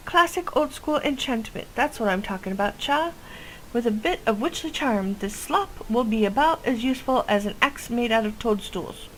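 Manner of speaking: a hint of a chatty old witch with a quirky accent; folksy witch voice. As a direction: boast about her brew like a village witch. Witch NPC continues.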